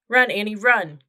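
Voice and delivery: loud urgent cry. A narrator's reading. Brother crying out as the monster nears. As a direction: scream at her to run. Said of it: "cried Jack".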